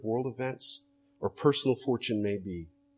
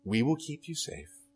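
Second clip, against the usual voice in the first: reassuring parent; 3 semitones higher, 5 dB quieter than usual. Retold or imitated. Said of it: "you say something like this".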